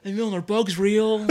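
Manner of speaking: slow, mock-dumb question; wackadoo act. Comic plays wackadoo to needle cohost, mock-dumb. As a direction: play the wacky freak, slowly. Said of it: "You like when I wackadoo".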